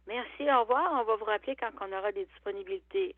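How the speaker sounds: brisk phone agent brush-off; customer service voice. Retold or imitated. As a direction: hurry the caller off politely. Acted call with CLSC agent.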